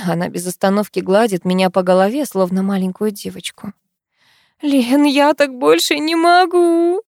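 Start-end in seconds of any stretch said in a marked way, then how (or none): 4.6-7.0 slow, drawn out, higher and louder in despair; wife crying to her friend that she cannot go on; trembling lips. A narrator's reading. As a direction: let it break as she sobs on her friend's neck. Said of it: "Протяжно дрожащими губами".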